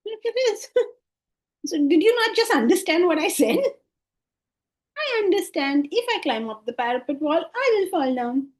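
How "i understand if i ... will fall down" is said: lightly voiced child, starting high and settling; child repeating a warning. Child answering an adult's warning about the parapet wall, lightly imitated child. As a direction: play an obedient child parroting it back. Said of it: "The child talks to you like this".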